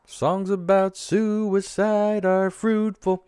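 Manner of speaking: slow, high mock solemn line; deadpan. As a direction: savour it like a wry punchline. Dry joke after song talk.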